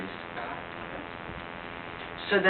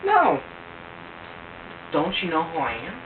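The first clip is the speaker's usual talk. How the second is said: mock singer; 5 semitones higher, much slower than usual. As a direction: ham up the singer's brag. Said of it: "they're like".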